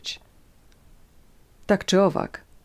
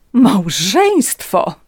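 slow, raised, loud scoff; scornful snort; 4 semitones higher, 7 dB louder, much slower than usual. A narrator's reading. Countess scoffs at Natalia's mention of marriage, snorting. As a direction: stretch the word in haughty contempt. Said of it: "prychnęła hrabina".

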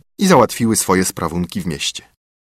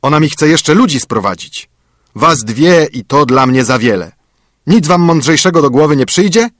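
higher, louder cranky dwarf; grumpy dwarf; 5 semitones higher, 5 dB louder than usual. A narrator's reading. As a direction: sneer at the girls as the dwarf. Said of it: "burknął Karzeł".

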